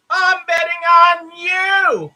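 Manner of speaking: loud, slow, high triumphant call at the table; all-in gambler's shout; excited shout. Pretend. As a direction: shout the bet out like a high roller. Pretend roulette bet, pushing chips.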